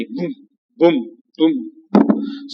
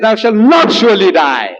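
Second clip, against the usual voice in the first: Shaitan's defiant cry, half-acted; mock shout; 4 semitones higher than usual. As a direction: shout "Thou shalt not surely die" with a hard "not". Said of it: "Shaitan said".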